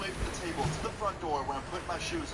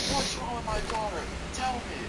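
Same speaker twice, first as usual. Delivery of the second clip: retold scream; 8 semitones higher than usual. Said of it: "starts screaming".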